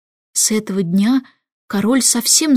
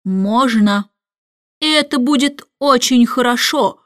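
haughty; 2 semitones higher than usual. Acted. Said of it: "произнёс он надменно".

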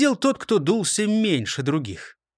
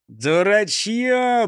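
hiss; 5 semitones higher, 3 dB louder, much slower than usual. Acted. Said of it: "прошипел шеф".

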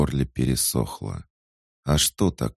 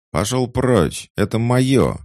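furious high yell driving him off; high, loud possessive shriek; angry shout; 11 semitones higher, 7 dB louder than usual. Acted. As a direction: scream at him to get away. Girl swings at intruder.

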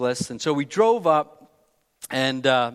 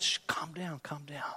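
whispered shush, softly soothing; hushed whisper; 14 dB quieter than usual. Retold or imitated. Husband hushing his upset wife, whispering. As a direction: hush her gently under the breath.

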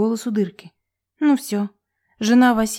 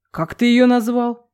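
awed whisper; 3 semitones higher, 3 dB louder, slower than usual. A narrator's reading. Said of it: "прошептал отец с каким-то священным ужасом".

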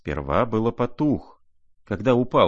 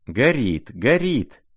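rising, louder cries of alarm; crying out; 6 semitones higher, 4 dB louder, slower than usual. Acted. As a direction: shout the warning, climbing higher. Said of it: "кричали все в один голос".

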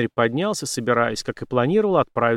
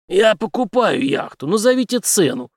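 louder, higher, firm demand; hard; 9 semitones higher, 5 dB louder than usual. Acted. Henry cuts off the general's blackmail, hard and firm. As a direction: set the price like an ultimatum. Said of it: "жёстко ответил Генри".

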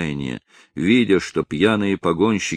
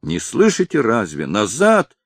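a touch of alarm, slightly raised; scared urging; 3 semitones higher than usual. Acted. Innkeeper warns the drovers to back off, mildly alarmed. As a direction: hurry them back, worried. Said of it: "повторил он громче, с заметным страхом".

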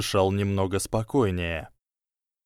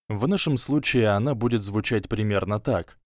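ordinary delivery, nothing marked

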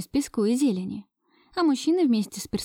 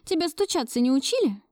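indignant; 7 semitones higher than usual. A narrator's reading. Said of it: "возмутилась я".

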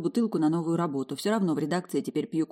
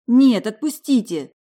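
loud, slow, desperate no; frightened cry; 5 semitones higher, 10 dB louder, slower than usual. Acted. Alisa to the man grabbing her, frightened loud cry. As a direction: push him off with your voice.

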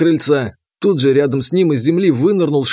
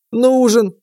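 put-on higher, sudden call from an old man; old grandfather; 8 semitones higher than usual. A narrator's reading. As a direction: stop them short like a grandpa. Grandfather confirms.

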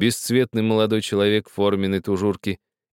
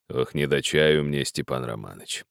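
mournful sigh; 6 semitones lower, 4 dB quieter than usual. A narrator's reading. Old man pleading.

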